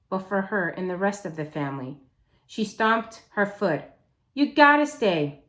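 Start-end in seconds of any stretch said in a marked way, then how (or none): 4.3-5.4 high, louder pleading insistence; insistent demand. Acted. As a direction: stamp your foot and insist. Amanda stomps her foot, insists.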